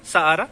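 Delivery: सहारा as "sa-aa-raa"; silent H. Shown as a demonstration. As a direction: glide through सहारा without the H. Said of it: "क्योंकि एच silent कर रहा हूँ".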